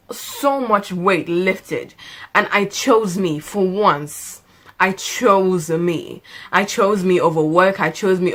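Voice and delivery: slow, savoring each word; sincere relief after quitting; slow relieved. Real, not acted. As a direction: let the relief sink in slowly. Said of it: "relief after quitting".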